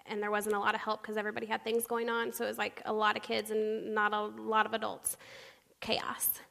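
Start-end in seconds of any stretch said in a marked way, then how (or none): 5.8-6.4 hushed, voiceless punchline; soft breath of a word; whispered aside. Real, not acted. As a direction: whisper it for effect. Sums up weekend, voiceless.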